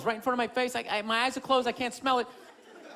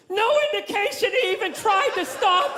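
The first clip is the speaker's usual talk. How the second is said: news anchor; 6 semitones higher than usual. Acted. Mock news report.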